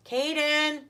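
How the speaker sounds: yelling for son; calling out. Real, not acted. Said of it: "Sorry, I don't mean to yell".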